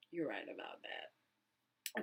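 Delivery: low, soft and slow, utterly unbothered; deadpan mock reply. Answering her friend, a slow low deadpan agreement. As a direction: drag it out low and flat-toned, deadpan.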